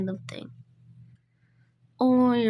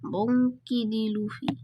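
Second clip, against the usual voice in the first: put-on slow, stretched Hispanic accent; slower than usual. Animator playing the would-be pirate king, Hispanic accent. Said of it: "doing it in a Hispanic accent".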